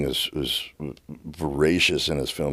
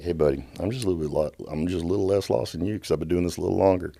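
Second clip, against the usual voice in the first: casual and easy; 3 semitones higher, faster than usual. Retold or imitated. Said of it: "the casualness and ease with which he said".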